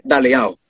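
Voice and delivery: slow demo of the Andalusian "daleao". Shown as a demonstration. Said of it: "un ejemplo así muy concreto".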